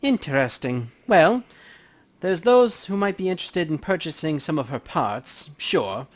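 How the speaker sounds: casual cop talking to coroner; lightly voiced detective. Player holds Justin's voice.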